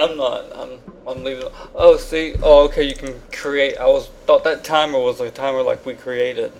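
high and sluggish; groggy from anesthesia. Real, not acted. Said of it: "you're high as hell right now".

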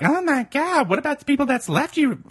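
very high-pitched mock outrage; mock whining complainers. Mimicking listeners complaining on Twitter, mock whining. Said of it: "they were like".

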